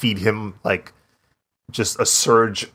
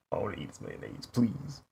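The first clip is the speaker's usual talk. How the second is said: mock pleading; 10 dB quieter than usual.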